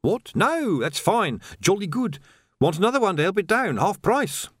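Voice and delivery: high, gushing relief; relieved young hawker's patter. A narrator's reading. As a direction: pitch it up, eagerly back to selling. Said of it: "relief rose off the man".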